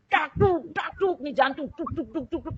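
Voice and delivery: heavy thuds, then a repeated run of beats; imitated heartbeat. Patient showing how the heart pounded while eating, imitated thumping. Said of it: "kayak gitu".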